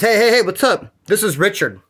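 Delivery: lively imitation of an inmate posing as his cellmate; Richard impression. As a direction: casually copy another man's phone greeting. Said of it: "adjusted his voice to make it sound like Richard".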